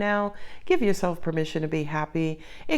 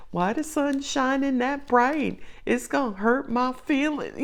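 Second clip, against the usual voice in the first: higher-pitched, mock-wounded complaint; mock emotional; 4 semitones higher, 4 dB quieter than usual. Reader imitates herself getting emotional over nothing, mock-wounded higher voice. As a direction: play up being absurdly oversensitive, a touch softer. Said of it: "when a sister get emotional".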